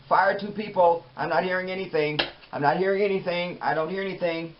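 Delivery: a pampered host snapping at crew to fire people; mock diva host. Mock boss ranting on set.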